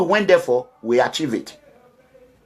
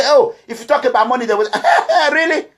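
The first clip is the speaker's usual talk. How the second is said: scoffing laugh with a higher pitch; laughing mockery; 5 semitones higher than usual. Real, not acted. Vlogger laughing at critics who mock money talk.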